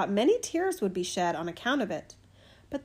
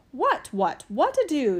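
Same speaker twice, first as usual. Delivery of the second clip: fussy hen, higher and agitated; clucking hen; 3 semitones higher, 4 dB louder than usual. A narrator's reading. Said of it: "she clucked".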